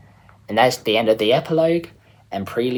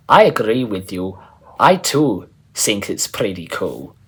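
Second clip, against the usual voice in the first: put-on German accent; 3 dB louder than usual. The speaker agreeing with Geistes in a German accent. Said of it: "Eric has a pretty good German accent".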